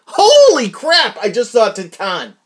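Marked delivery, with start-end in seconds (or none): 0.1-1.2 excited drawl. Real, not acted. Excited about the film.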